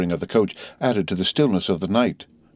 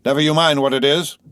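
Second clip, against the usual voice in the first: curt retort; 7 semitones higher, 4 dB louder than usual. A narrator's reading. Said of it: "the guard retorted".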